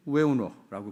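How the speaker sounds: short, blunt Gyeongsang dialect question. Shown as a demonstration. Preacher shows Jesus's question in Gyeongsang dialect. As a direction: clip it to three syllables the Gyeongsang way. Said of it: "경상도 말로 세 글자로 바꾸면".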